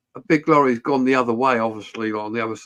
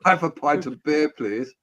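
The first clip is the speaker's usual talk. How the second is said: put-on posh accent. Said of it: "giving a posh accent".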